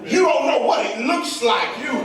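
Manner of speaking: driving, rhythmic preacher's build; impassioned preaching. Real, not acted. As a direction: press on phrase after phrase with rising fervour.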